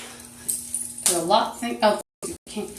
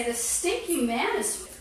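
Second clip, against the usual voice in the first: slow put-on voice; 3 semitones higher, 3 dB quieter than usual. Shown as a demonstration.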